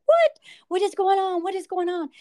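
husband's high, loud startled cry, settling after; alarmed husband. Retold or imitated. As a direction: burst in confused and scared. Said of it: "my husband's like".

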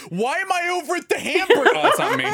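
high loud flustered cry; flustered and laughing, high; panicked confusion. Retold or imitated. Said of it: "I'm like".

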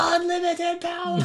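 high, creaky evil emperor voice; cackling old tyrant voice; Palpatine impression. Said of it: "Like Palpatine".

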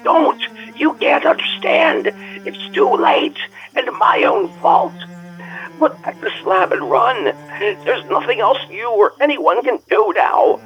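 frantic, hopeless pleading; scream of despair. Acted. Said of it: "changed to a scream of utter despair".

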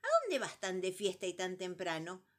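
brisk, bright bird voice; chatty bird. Acted. Calandria chattering at number three on his way. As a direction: chatter it like a nosy little bird.

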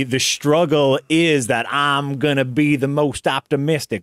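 lightly voiced impression of an earnest film heroine; a hint of a movie star's optimistic speech; Sandra Bullock impression. Podcaster mocking an optimistic film, lightly done Sandra Bullock impression. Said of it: "That's my Sandra Bullock impression".

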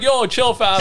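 frat bro. Retold or imitated. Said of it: "And I was like".

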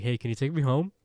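lightly put-on request, lilting up at the end; mock-innocent asking, rising at the end; not-quite-accurate mimicry. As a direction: imitate someone casually asking a favor. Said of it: "He didn't say it like that".

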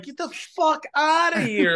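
high, loud mock outburst of disbelief; disbelieving outburst. Looking under the wrestling ring, loud high mock disbelief. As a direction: blurt it out like you can't believe your eyes. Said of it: "And I'm like".

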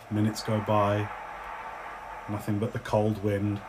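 low, soft game master narration; hushed, spaced-out storytelling; scene setting. Acted. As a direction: let each phrase hang in the quiet.

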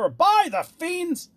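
very high, loud, drawn-out oath; shouted threat. A narrator's reading. Monstrous king threatens the hesitating dwarf, shouted. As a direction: shout a slow, furious threat. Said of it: "shouted the monster".

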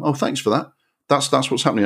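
dripping sarcasm at a dumb film; sarcastic thanks. Pretend. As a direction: thank the film with heavy irony.

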